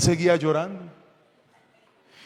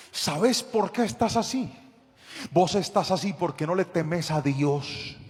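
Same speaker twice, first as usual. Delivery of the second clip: building scolding; 4 semitones higher, 8 dB louder than usual. Retold or imitated. Pastor lecturing the attacker, building to a full shout. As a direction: start steady, then pile it on line by line until shouting.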